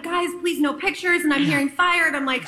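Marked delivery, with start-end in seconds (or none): 0.0-1.2 higher, shooing off fans like a star; a star waving off paparazzi; mock celebrity. Actress pretending to dodge fans, mock star tone.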